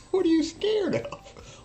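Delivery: very high, slow mock taunt; coach taunting. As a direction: needle the kid like a fed-up coach. Coach yelling at his player.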